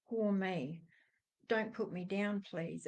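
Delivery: soft, small mock plea; self-pitying plea. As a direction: trail off quietly, playing the cowed child. Acting out her old timid self.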